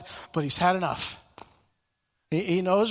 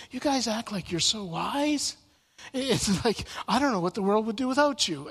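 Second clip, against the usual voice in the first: mock them gently, tongue in cheek; mocking sarcasm; 3 semitones higher than usual. Job mocking his friends, mild sarcasm. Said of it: "he kinda mocks them".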